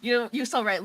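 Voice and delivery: ordinary talk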